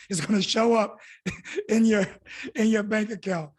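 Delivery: chuckling mid-sentence at his own slip; laughing at himself. Real, not acted. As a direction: laugh through the words. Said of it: "God damn, I just dated myself".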